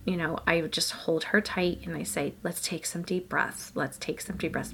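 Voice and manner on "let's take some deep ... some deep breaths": soothing calm. Retold or imitated. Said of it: "I try and guide her through it".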